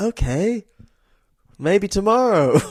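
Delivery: mock drugged, blankly amicable tone. Retelling a character's reply, imitating a glazed-over, drugged-up tone. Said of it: "Just glazed over".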